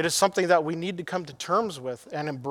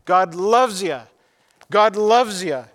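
emphatic Billy Graham; 5 dB louder than usual. Retold or imitated. Preacher imitates an evangelist repeating himself as he hits his Bible, emphatic. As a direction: hammer it out over and over, attempting a booming preacher. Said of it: "that deep booming voice that he has".

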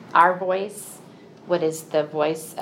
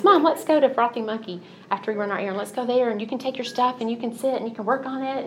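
higher, quick, hopeful daughter; daughter's eager voice; 6 semitones higher, faster than usual. Retold or imitated. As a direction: sell the café plan like a keen daughter.

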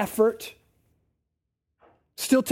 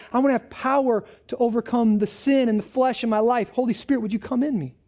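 sample prayer; 2 semitones lower, faster than usual. Acted. Modelling a prayer.

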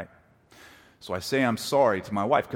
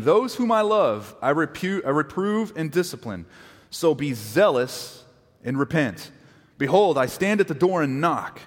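measured, weighty reading of scripture; 3 dB louder than usual. Acted. Pastor reads scripture to the congregation, measured and weighty.

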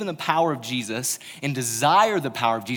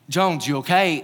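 coach yelling; 3 semitones higher, 4 dB louder than usual. Retold or imitated. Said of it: "my coach is yelling at me".

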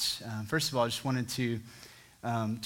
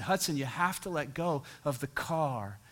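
patient and calm; 5 dB quieter than usual. Retold or imitated. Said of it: "with patience and calmness".

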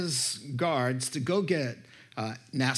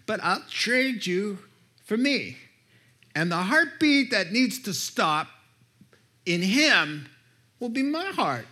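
impassioned plea; 4 semitones higher, 4 dB louder than usual. Acted. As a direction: plead with growing fervor. Aslan making the trade.

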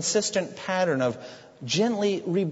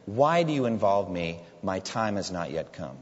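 respectful; 7 semitones lower than usual. Retold or imitated. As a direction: speak to your mother with deep respect. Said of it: "he says very respectfully".

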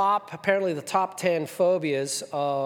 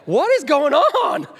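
high, alarmed cry of panic; high-pitched startled "what is going on"; panicked self-quote; 10 semitones higher, 8 dB louder than usual. Retold or imitated. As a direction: blurt it out in sudden fright. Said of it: "And I'm like".

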